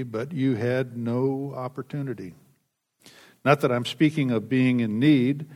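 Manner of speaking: measured, formal Bible reading; formal reading from the pulpit; scripture reading. Acted. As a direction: read each verse with weight. Reads Philippians aloud.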